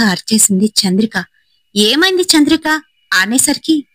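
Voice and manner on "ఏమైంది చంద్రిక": high, startled cry of her name; jolted, asking what happened; sudden high worried call; alarmed question. Acted. Cousin startled by her scream.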